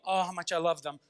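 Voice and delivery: tender. Acted. God swinging back to love.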